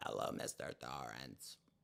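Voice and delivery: hoarse croak, barely above a whisper. Speaker with a hoarse voice greets Mr. Torrance, doing a Tony from The Shining voice. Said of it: "My voice is so hoarse, I sound like Tony".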